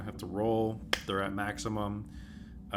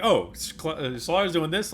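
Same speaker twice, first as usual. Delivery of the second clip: mock rambling; 8 semitones higher, 7 dB louder than usual. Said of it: "Calliope's just, like, rambling".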